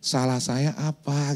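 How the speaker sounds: slow, soft, polite ask; gentle question. Retold or imitated. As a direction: ask it quietly and slowly. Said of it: "Dia tuh".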